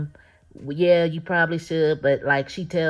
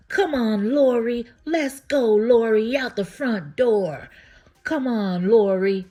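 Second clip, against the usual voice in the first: high, loud calling out "Lori"; talking real loud; 7 semitones higher, 5 dB louder, slower than usual. Retold or imitated. Zach loudly warning Nate that Lori is upstairs, calling out high and loud. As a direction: call loudly so the guy downstairs hears. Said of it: "he starts talking real loud".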